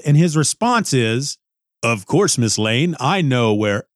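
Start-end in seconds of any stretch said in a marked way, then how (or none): 1.8-3.8 low, slow, menacing hint; a touch of sinister calm; creepy Superman. Retold or imitated. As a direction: say it like you know a secret. Superman's creepy line quoted.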